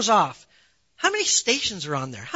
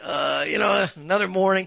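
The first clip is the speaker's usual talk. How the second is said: weary morning grumble; 4 semitones lower than usual. Acted. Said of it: "I'm like".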